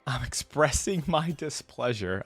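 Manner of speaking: slow, deliberate echo; mimicked complaint. Reactor quoting a favorite line back, slowly mimicking. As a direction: imitate it slowly, savoring each word. Echoing the character's played line.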